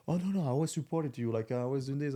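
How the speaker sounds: high, sing-song fake friend voice; mocking fake supporter. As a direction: mimic a two-faced fan. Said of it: "people are like".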